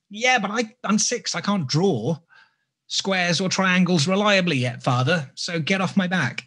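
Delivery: put-on sulky kid pushing back at dad; imitating his daughter. Six-year-old daughter snapping back at her father, mildly mock-sulky. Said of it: "And she's like".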